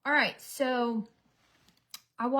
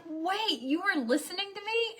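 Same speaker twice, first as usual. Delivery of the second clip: mock shock; 10 semitones higher than usual. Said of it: "And I was like".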